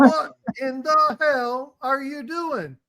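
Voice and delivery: slow shocked disbelief. Retold or imitated. Friend shocked at costume.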